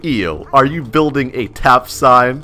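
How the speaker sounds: slow, mock-disgusted question; put-on disdain, drawn out; fake disgust. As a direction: sneer it slowly, pretending not to care. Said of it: "I'm being a fake tap".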